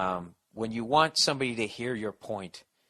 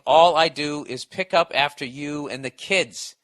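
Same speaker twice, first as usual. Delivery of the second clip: retold wife's complaint; 6 dB louder than usual. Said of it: "And saying".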